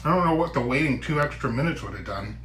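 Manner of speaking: talking through food; mouth full. Real, not acted. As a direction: speak round a bite. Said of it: "I don't like to talk with my mouth full".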